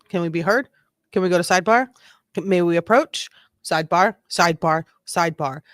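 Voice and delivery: rapid, rising mock objection; hammed-up lawyer begging for sidebar. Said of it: "Here goes Brennan".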